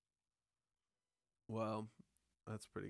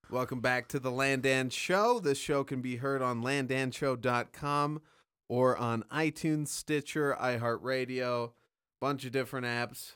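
loud, upbeat host voice; show host intro; 4 dB louder than usual. Acted. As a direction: welcome listeners like a radio host. Podcast intro announcer.

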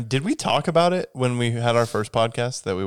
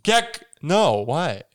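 high startled yelp, then drops; mock alarm; 6 semitones higher, much slower than usual. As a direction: yelp the first word high. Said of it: "the guy was like".

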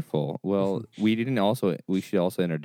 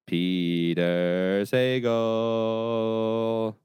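radio show host; 4 semitones higher, much slower than usual. Acted. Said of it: "You guys don't watch Wait, Wait, Don't Tell Me?".

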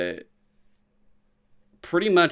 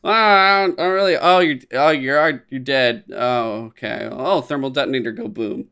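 mock confusion; 4 dB louder than usual. Mocking the dying spy's reveal.

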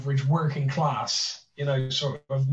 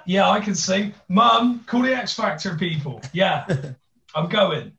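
lightly acted cocky would-be singer; deluded auditionee; 3 semitones higher than usual. Would-be contestant telling mum to phone the show, mock cocky. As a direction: call out to mum, playfully overconfident.

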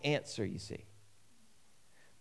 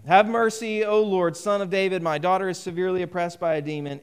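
raised, louder plea; crying out; 3 semitones higher, 4 dB louder than usual. Acted. A desperate mother cries out to Jesus for her daughter, crying out. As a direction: call out for mercy, pitched up at first. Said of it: "she's cried out to him".

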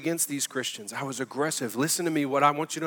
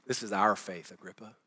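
intimate appeal; 6 semitones lower, 8 dB quieter than usual. Retold or imitated. Paul voiced pleading softly.

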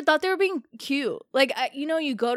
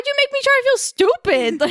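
much higher and louder, half laughing; mock indignant squeal; 13 semitones higher, 6 dB louder than usual. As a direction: squeal it in playful outrage. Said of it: "I was just like".

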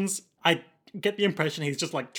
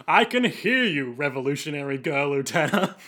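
hammed-up Matt Berry voice. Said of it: "bad Matt Berry impression".

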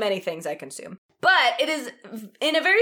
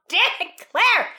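frustrated outburst; 9 semitones higher, 4 dB louder than usual. Real, not acted. Friend mock-frustrated outburst.

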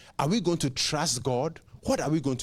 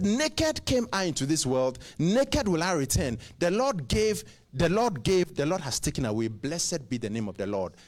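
quoting Job. Retold or imitated.

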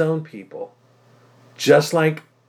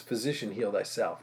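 quoted proverb; 4 semitones lower, 10 dB quieter than usual. Retold or imitated. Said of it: "you're gonna quote to me this proverb".

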